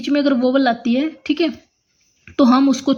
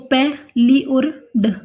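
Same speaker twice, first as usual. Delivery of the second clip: slow syllable by syllable; slower than usual. Shown as a demonstration. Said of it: "जैसे हमने लिख दिया पैलिड".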